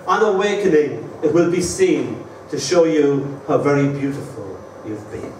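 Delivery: gentle, measured poem recital; poem reading. Acted. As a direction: read it like a tender love poem, slowing on the kisses. Reads his love poem aloud.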